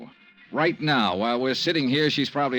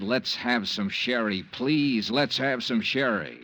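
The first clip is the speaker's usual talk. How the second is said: imitating her request; slower than usual. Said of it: "when she said".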